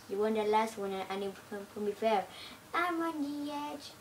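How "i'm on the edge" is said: climbing high to a loud squeal; rising squeal. Pretend. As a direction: build from tense to shrieking. Rising panic joke.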